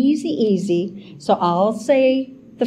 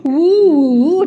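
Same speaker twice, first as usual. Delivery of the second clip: mock shudder; 6 semitones higher, 5 dB louder than usual. Real, not acted. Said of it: "told you it was vicious".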